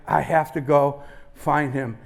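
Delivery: politely but steadily excuse yourself. Retold or imitated. Speaker excusing himself to his doubting friend, polite. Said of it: "politely said to the guy".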